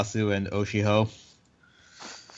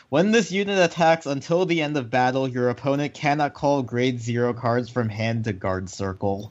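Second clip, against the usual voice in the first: reading it out through gritted teeth; through clenched teeth. Real, not acted. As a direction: grit your teeth and push the words out. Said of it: "I like how you said that through clenched teeth".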